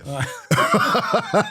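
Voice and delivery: high burst of laughter; real laugh. Real, not acted. Comedian amused at his own breakup story, real laughing. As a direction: laugh out at your own tale.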